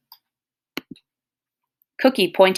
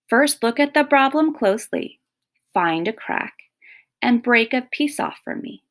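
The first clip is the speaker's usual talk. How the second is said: higher, lightly voiced kindly grandfather; Granddad's voice; 7 semitones higher than usual. Granddad tells Cookie how to break the problem, lightly voiced. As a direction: gently instruct like a wise old granddad.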